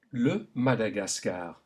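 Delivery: le Madagascar with open French a in every syllable; French vowel A. Shown as a demonstration. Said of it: "this is pronounced A".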